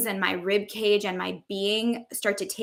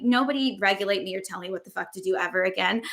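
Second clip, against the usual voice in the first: defiant; faster than usual. Retold or imitated. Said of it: "I'm like".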